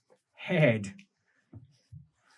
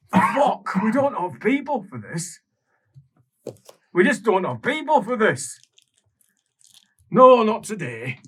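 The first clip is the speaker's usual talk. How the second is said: much higher and louder, frantic; panicked outburst; 9 semitones higher, 7 dB louder than usual. Acted. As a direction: panic at a desk overflowing with work. Official panicking.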